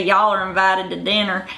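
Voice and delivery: rhotic mountain Southern accent, hard R; Appalachian Southern accent demo. Shown as a demonstration. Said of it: "So they're gonna say".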